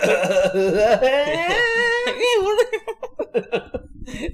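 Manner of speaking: high, long wordless wail; mock performance wail. Singer cured by Ricola, out there doing it, mock wail. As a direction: belt out a long silly wail through laughter.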